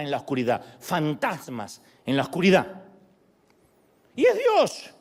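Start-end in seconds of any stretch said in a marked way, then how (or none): 4.2-4.9 high, ringing reveal; triumphant higher declaration. Acted. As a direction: announce the surprise. Revelation after ghosts.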